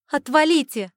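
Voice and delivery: high, loud snapping retort; snapping boy. A narrator's reading. The boy snaps at the mentalist, high and loud. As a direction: bark it back like a cornered kid. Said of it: "немедленно огрызнулся младший Кастанелло".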